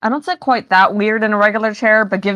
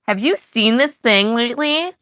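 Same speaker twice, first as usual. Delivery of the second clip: put-on valley girl accent; slower than usual. Shown as a demonstration. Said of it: "I can be like".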